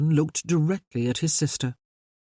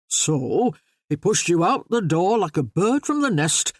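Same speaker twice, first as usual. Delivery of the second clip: hearty Yorkshire voice. Acted. Yorkshireman easing an awkward dinner silence, hearty Yorkshire voice. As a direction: play a jovial Yorkshireman breaking the silence. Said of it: "in his usual hearty Yorkshire voice".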